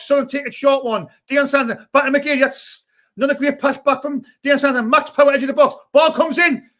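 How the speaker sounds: running fan commentary; live match commentary. Acted. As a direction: call the game for the live chat.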